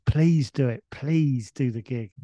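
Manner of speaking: imitated plea, the second one drawn out; begging. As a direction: lightly act out begging a favour. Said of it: "starts begging us".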